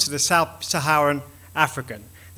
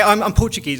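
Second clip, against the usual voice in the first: embarrassed excuse; 3 semitones higher, 4 dB louder than usual. Retold or imitated. Speaker excusing their accent to philosophers, embarrassed. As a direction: blurt it out as an awkward excuse. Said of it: "I'm embarrassed by my accent sometimes".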